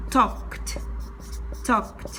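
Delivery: talked as "tokt"; talked in one syllable, ending "kt"; final T sound. Shown as a demonstration. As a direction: model talked twice with a released T. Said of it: "Entonces voy a pronunciar".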